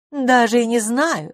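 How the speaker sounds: high, slow haughty reply. Acted. Edith haughtily holds off Tony's apology, lofty. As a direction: look down your nose and say it. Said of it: "сказала она высокомерно".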